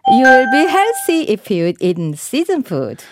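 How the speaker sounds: very slow, clear sentence for learners; slow model reading. Shown as a demonstration. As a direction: read it slowly word by word. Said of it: "문장으로 만들어 볼게요". (천천히 또박또박 읽기)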